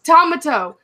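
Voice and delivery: "Tomato" as TOM-uh-toe; imitated mispronunciation. Repeating a customer's odd word, "Tomato" as TOM-uh-toe. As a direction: hit the first syllable of "Tomato": TOM-uh-toe. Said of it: "I heard someone once call a tomato".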